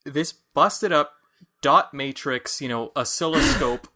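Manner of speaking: punchy, exasperated disbelief; mock incredulity. Player reacting to the forgotten password, emphatic mock incredulity. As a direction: spell out the absurdity, piece by piece.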